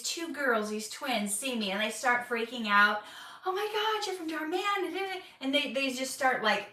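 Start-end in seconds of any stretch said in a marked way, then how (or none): 3.5-5.2 excited fan squeal. Retold or imitated. Twins recognize her excitedly.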